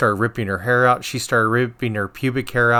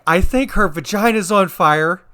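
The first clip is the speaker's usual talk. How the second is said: put-on higher and louder, matter-of-fact old lady; deadpan neighbor; 8 semitones higher, 6 dB louder than usual. Nurse imitating the neighbor patient announcing it. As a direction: report it like a nosy roommate. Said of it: "her neighbor was like".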